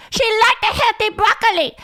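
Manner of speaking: same high mock Asian accent, repeated with "liked" stressed; mock Asian accent, high-pitched repeat; imitating Asian mom. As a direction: nag again about the broccoli, insisting. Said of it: "would do this bit about how her mom".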